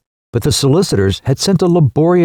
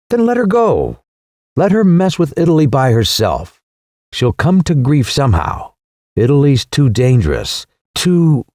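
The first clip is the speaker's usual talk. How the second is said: worked up; 3 semitones higher than usual. Acted. Son rants against Italy.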